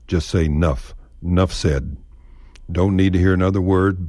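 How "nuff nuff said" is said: 'Nuff with no opening e, a short nuff; dropped e in enough. Shown as a demonstration. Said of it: "ditch the E in enough".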